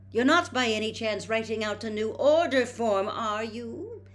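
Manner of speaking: a mother sniffing out her sons' scheme; shrewdly. A narrator's reading. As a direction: let them know you see right through them. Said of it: "said Missus Weasley shrewdly".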